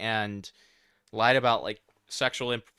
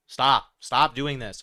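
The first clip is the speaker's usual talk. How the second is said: a louder, fed-up stop; annoyed stop; 6 dB louder, slower than usual. Real, not acted. Streamer scolding the creator on screen, loud and fed up. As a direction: cut the creator off, exasperated.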